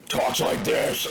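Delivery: slow, whispery crazy-guy voice; Jesse Ventura. Retold or imitated. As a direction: drag it out slow like a conspiracy nut. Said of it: "he's like a crazy voice".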